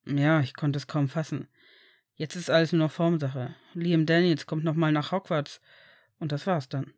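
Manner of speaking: a hint of a low, composed father; composed Severus. Severus explains the adoption to friends, composed and low.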